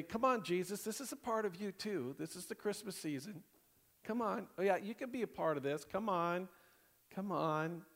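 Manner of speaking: acted pleading, nudging "come on"; wheedling coaxing. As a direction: coax a reluctant friend to join in. Acted coaxing of Jesus to join.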